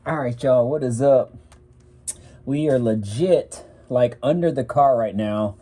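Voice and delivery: talking through a mask, muffled. Real, not acted. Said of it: "If I sound a little bit, echoey".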